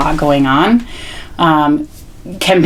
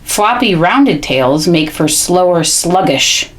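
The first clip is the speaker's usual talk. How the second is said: read-aloud; slower than usual. Shown as a demonstration. Models reading aloud to child.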